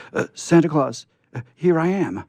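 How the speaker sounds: high, loud eager call to Santa; crying out. A narrator's reading. Scarecrow calls out loud to passing Santa. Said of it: "he cried out".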